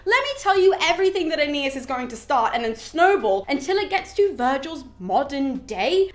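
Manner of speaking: a father lecturing, puffed up; hammed-up king of the gods; Jupiter reassuring. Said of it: "goes through so much history to be like".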